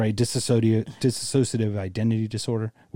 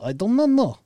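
higher put-on voice of a confused caller; mock confused caller; 8 semitones higher than usual. Host pretending to phone about a diabetic coma, mock confused. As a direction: play a lost caller phoning for help.

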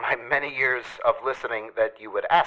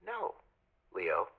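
soft gentle voice; 7 semitones higher, 12 dB quieter, slower than usual. Retold or imitated. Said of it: "But she said".

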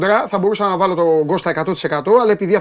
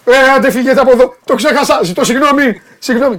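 louder outburst over your own slip; exclaiming apology; 3 semitones higher, 4 dB louder than usual. Real, not acted. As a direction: blurt out an emphatic apology.

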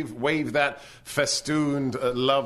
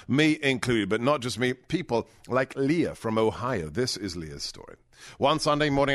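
ad read. Acted. Reads a sponsor ad.

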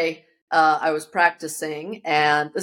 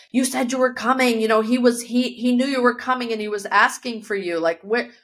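lightly acted, higher-pitched reproach; retold reproach; 6 semitones higher than usual. Relative reproaches student arriving after his death, mild retold reproach. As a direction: imitate someone upset at a late arrival.

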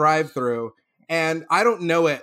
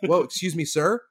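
calm apology. Retold or imitated. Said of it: "my brother's like".

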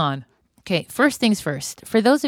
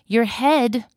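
calm self-talk; slower than usual. Retold or imitated. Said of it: "I tell myself".

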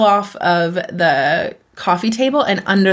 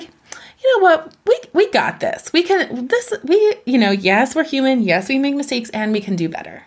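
encouraging self-talk; 3 semitones higher than usual. Retold or imitated. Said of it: "embody a firm parent".

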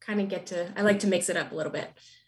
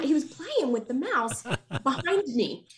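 ordinary talk, nothing marked

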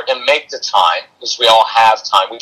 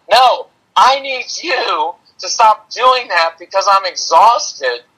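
higher, slowed mock yell of a worn-out parent; mock exhausted yell; 7 semitones higher, slower than usual. Parent yelling at upset kids to stop, mock exhausted yell. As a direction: play the fed-up parent yelling back, half in jest. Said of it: "where we're yelling".

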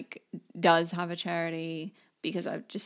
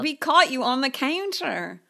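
raised-pitch playful accusation; mock accusation; 5 semitones higher, 4 dB louder, slower than usual. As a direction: confront a caught culprit in mock outrage. Acted accusation of the culprit.

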